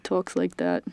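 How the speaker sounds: low, gruff Brooklyn dad voice; Brooklyn accent. Retold or imitated. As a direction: drop into a heavy Brooklyn accent. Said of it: "got a heavy Brooklyn accent".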